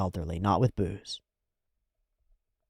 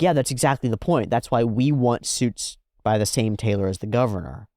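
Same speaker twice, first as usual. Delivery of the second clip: rising higher and louder, bragging; building hammed-up swagger; cocky Joe; 6 semitones higher, 4 dB louder than usual. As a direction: brag harder and higher to the end. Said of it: "And he's like".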